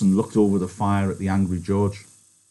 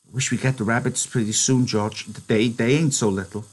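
put-on higher, childlike wishful; Lenny, hopeful; 3 semitones higher than usual. Lenny wishing for the rabbits, hopeful. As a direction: dream about the rabbits.

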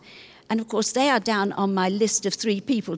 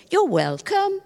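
put-on Romanian-accented "You're welcome", pitched higher; Romanian way of saying it; 8 semitones higher, slower than usual. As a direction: imitate a Romanian driver's polite "You're welcome". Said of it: "All of them say it like that way".

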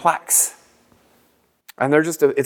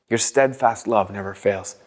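meditative repeat; 5 semitones lower than usual. Shown as a demonstration. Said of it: "and you repeat it".

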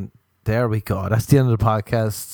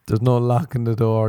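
ordinary talk, nothing marked

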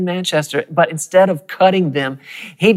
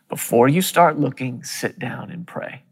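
soft inner whisper; 6 dB quieter than usual. Retold or imitated. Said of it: "I heard the Lord speak to me on the inside".

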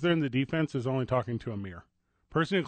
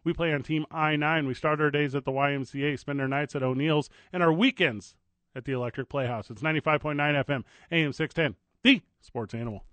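radio station ID read. Acted.

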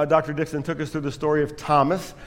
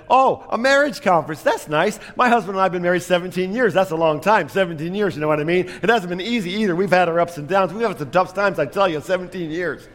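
higher, fast nonstop chatter; chatty Betty; 3 semitones higher than usual. Retold or imitated. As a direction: gush on without pausing for breath. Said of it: "And Betty said".

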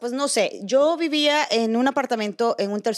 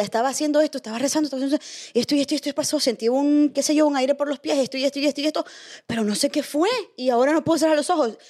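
panicked retelling; 4 semitones higher, faster than usual. Retold or imitated. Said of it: "y le decía".

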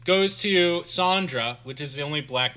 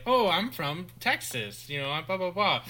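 a touch of listless mock introduction; passive introduction; 3 semitones higher than usual. Sorority girls introducing themselves to the step group, passively. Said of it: "very passively just say".

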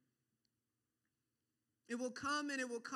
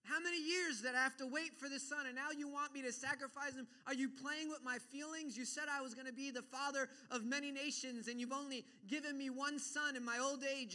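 raised, insistent acted outrage; indignant protest; 3 semitones higher than usual. Preacher voices Abraham refusing to sacrifice his son, indignant protest. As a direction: pour out the grievance without letting up.

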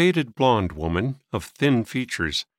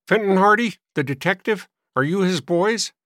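higher, louder crotchety questioning; testy old man; 9 semitones higher, 4 dB louder than usual. A narrator's reading. Old man questioning boys at his door, testy.

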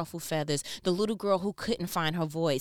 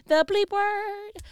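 much higher, slow mock gasp; shocked disbelief; 13 semitones higher, 5 dB louder, much slower than usual. Real, not acted. Reacting in mock shock to the coworker's swearing. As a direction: hit it like you can't believe it.

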